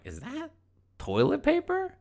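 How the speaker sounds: high, rising disbelief; puzzled, pitch shooting up at the end; incredulous question. Retold or imitated. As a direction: squeak it out as a baffled question. Puzzled at lawn discovery.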